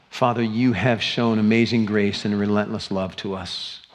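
earnest pastoral prayer. Real, not acted. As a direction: pray over the congregation, steady and sincere. Opens closing prayer.

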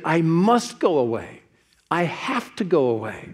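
weight on each phrase, pause between; emphatic. Retold or imitated. Jesus telling his disciples he must leave, emphatic. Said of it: "he said it absolutely emphatically".

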